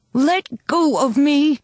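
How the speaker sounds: very slow, high, straining yell; furious cry. A narrator's reading. Girl struggling in policeman's grip, furious yell. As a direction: drag out each word in fury.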